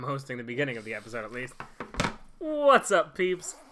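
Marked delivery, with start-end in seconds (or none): 2.4-3.6 high, loud host hello; bright podcast hello; excited greeting. Acted.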